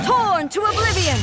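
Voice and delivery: battle cry. Acted. Warrior ending the fight with a shouted strike. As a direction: hurl the words with the final blow.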